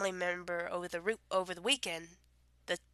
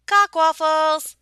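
higher, louder comic yell; silly outburst; 8 semitones higher, 12 dB louder than usual. Pretend. Reading a dirty word list, she bursts out with a silly insult. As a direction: blurt it out, cracking up.

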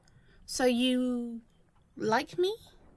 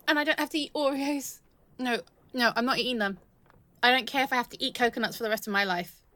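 louder, tumbling excited rush; elated; 5 dB louder, faster than usual. Acted. To partner after spotting land, loud elated rush. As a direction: babble with giddy relief.

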